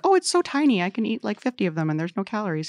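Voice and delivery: high, then quickening, mock-innocent snacker. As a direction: squeak it like a guilty snacker. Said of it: "because it's like".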